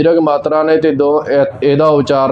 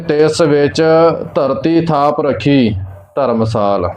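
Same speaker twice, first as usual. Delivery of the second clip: short pause after ਵਿੱਚ, another after ਰਖੀ; marked pauses. Shown as a demonstration. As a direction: break the phrase at ਵਿੱਚ and at ਰਖੀ. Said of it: "ਵਿੱਚ ਤੇ ਜਮਕ ਲੱਗੇਗੀ".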